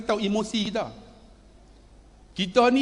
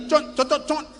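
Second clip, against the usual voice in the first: quick, higher mimicked kiss smacks; imitated kissing; 6 semitones higher than usual. Son-in-law kissing father-in-law's cheek, imitated kissing. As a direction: act out little pecks on a cheek. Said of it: "Saya cium pipi dia".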